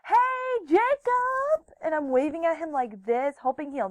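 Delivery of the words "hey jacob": high, loud drawn-out hail; calling out. Retold or imitated. Girl waving to catch Jacob's attention, calling out. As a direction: call out eagerly to get noticed.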